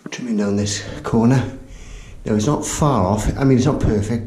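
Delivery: slightly winded, breathing between words. Real, not acted. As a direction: talk while catching your breath. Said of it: "bit out of breath".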